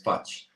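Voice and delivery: isolated, soft "faci"; word by word. Shown as a demonstration. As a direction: say "faci" alone as the second word. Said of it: "and then the other one is".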